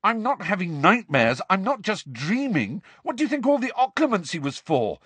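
high-pitched, heated tirade; angry shouted rant. A narrator's reading. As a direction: rant in mounting frustration. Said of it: "Harry shouted at her".

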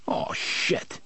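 breathy whispered oh shit; whispered curse. A narrator's reading. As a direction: mutter it under the breath, unvoiced. Stunned cop swears to himself.

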